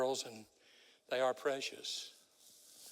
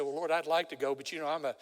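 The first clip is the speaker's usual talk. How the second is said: Isaiah begging off, rising to a desperate cry; Isaiah pleading; 3 semitones higher, 8 dB louder than usual. Acted. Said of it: "Isaiah could say".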